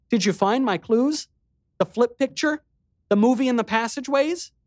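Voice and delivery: put-on high, loud impish girl voice; a teasing little sister, perking up; mischievous. A narrator's reading. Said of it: "a sudden hint of her old mischievous energy".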